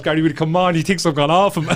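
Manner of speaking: high, loud voice breaking into laughter; hammed-up high-pitched pleading on the edge of laughing; imitating the wife. Wife urging Gary to hurry, high mock pleading. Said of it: "And she goes".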